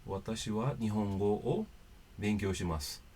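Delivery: slow, careful Japanese example sentence; Japanese sentence demo. Shown as a demonstration. Teacher demonstrating the Japanese word order, slow and careful. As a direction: read it out slowly to the learners in Japanese. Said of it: "ou seja, seria".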